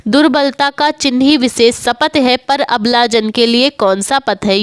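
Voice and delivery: measured verse reading; poem recitation. Acted. Teacher recites the verse passage.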